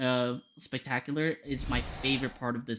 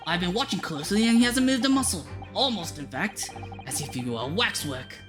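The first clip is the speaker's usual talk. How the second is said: theatrical detective voice; 2 semitones higher than usual. Acted. Voices game dialogue.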